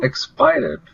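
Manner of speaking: surprised question. Real, not acted. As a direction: sound incredulous at the word. Mock incredulous reply.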